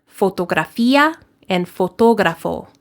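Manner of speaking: fotografía and fotógrafo in crisp Spanish vowels; Spanish pronunciation. Shown as a demonstration. Teacher models fotografía and fotógrafo in Spanish. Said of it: "in Spanish, those words are".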